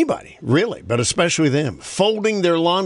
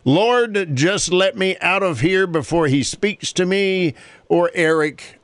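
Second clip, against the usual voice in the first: prayed; 4 semitones higher than usual. Acted. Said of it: "I prayed".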